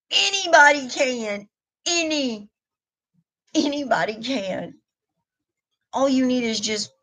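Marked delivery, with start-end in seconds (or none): 0.1-1.5 emphatic claim. Real, not acted. To her viewers, rallying them, a raised emphatic "anybody can". 1.9-4.7 softer echo. Real, not acted. To her viewers, repeating the point, a softer echo.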